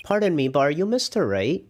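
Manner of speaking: lightly voiced polite boy; a touch of a kid's voice. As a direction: ask politely like a young boy. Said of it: "give him a normal kid voice".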